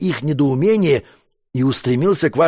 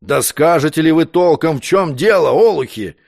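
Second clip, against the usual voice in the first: plain reading voice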